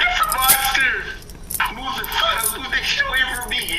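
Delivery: very high panicked squeal; mock terror. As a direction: squeal in hammed-up fright. Naruto acted, scared of gadget.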